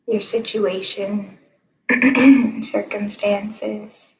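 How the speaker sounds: calm guided-meditation delivery, long pauses. Acted. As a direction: guide listeners gently into stillness, leaving room between phrases.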